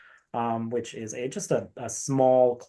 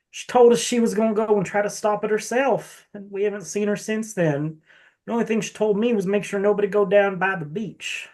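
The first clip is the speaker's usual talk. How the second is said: lightly put-on rural Southern accent for the priest; the priest in a folksy rural Southern accent; 8 semitones higher than usual. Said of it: "I don't know why I'm giving him that accent".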